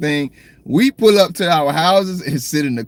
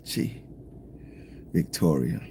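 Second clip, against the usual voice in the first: softly savoured, like a dream place; dreamy and romantic; 8 semitones lower, 10 dB quieter, slower than usual. Real, not acted. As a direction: sigh the name out, lovestruck. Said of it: "That sounds so romantic".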